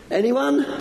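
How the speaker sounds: high, rising call to the room; eager call. Real, not acted. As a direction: call out eagerly, hoping for hands. Calling out to the children.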